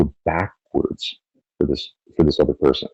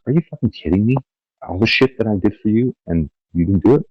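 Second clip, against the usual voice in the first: higher, incredulous mock rant; exasperated outburst; 5 semitones higher than usual. Helper who bent over backwards blurts out in disbelief. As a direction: act out the fed-up helper, stunned and bitter. Frustrated helper confronts the inspired partner.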